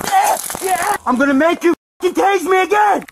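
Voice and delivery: high, loud, furious yell; shouting. Real, not acted. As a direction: scream it at them. Taunting officers while shouting.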